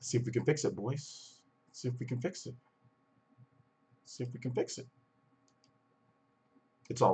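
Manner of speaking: like through a wall; muffled mic. Real, not acted. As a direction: voice muffled and far-off. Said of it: "like, muffled".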